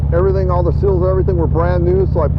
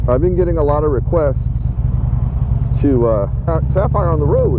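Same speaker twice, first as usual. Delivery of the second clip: cheeks squeezed by tight helmet; slight lisp, cheeks pressed in. Real, not acted. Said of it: "it makes me talk like with the lisp".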